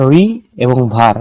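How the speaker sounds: রি and ভার each said as its own beat; broken into syllables. Shown as a demonstration. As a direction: split river into রি, then ভার. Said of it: "দুইটা ভেঙে ভেঙে উচ্চারণ করা হচ্ছে".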